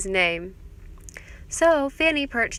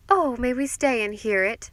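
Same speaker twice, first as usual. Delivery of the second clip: eager and a bit higher, pushed forward; enthusiastic cry; 4 semitones higher, 5 dB louder than usual. A narrator's reading. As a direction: gush with delight to be let in on the story. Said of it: "cried Missus Vanderburgh enthusiastically".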